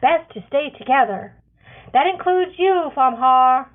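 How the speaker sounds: loud, high firm call. Acted. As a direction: call the boy firmly. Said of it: "Cascara calls out".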